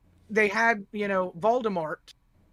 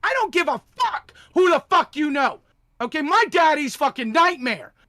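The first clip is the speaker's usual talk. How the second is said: louder, higher angry outburst; angry rant; 6 semitones higher, 5 dB louder than usual. Real, not acted. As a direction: lay into him hard.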